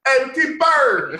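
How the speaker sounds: put-on Brooklyn accent. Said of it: "really bad Brooklyn accent".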